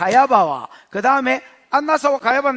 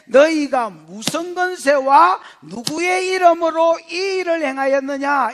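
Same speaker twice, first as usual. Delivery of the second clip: interrogating council; 3 semitones higher, 3 dB louder, slower than usual. Acted. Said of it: "이렇게 돼 있습니다".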